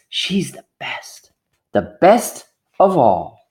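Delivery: hushed, slow secret; whisper. Acted. Mayor's wife confiding to the crowd, whispered. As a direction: lean in and whisper it.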